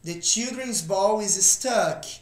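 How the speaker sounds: slow repeat for students to copy. Shown as a demonstration. Teacher repeats the sentence slowly for students. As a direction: say it again slowly, word by word. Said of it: "Próximo exemplo".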